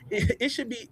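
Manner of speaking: words broken by a real laugh. Real, not acted. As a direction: laugh through the start of the line. Host laughs mid-sentence.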